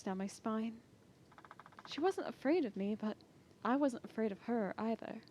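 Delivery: soft, hushed inner narration; story narration. A narrator's reading. Doxy narrating her captivity, hushed inner narration. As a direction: tell it quietly as a memory.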